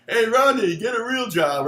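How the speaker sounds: mock yell from the crowd; mock heckle. Friend planted as heckler yells at the comedian on stage, mock heckle.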